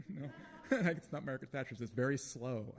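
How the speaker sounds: embarrassed laughing through the words. Real, not acted. Poet admits to audience she can't do the accent, laughing.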